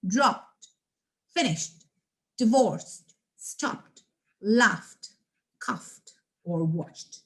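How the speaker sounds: one-syllable ed words; subtle final T. Shown as a demonstration. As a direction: say each word with a subtle t. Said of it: "very subtle sound of T".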